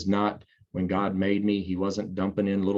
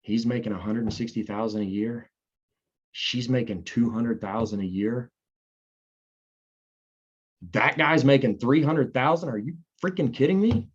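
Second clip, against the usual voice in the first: retold amazement. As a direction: relive the shock at the meeting. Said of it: "I was like".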